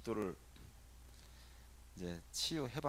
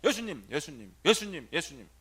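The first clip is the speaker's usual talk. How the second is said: louder repeated calling of the name; 8 dB louder than usual. Shown as a demonstration. Priest calling Jesus' name for the youth to copy. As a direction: call out the name again and again. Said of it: "해봐".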